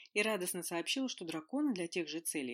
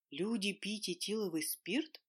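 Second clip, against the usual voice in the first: astonished; 3 semitones higher, slower than usual. A narrator's reading. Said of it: "потрясённо переспросила".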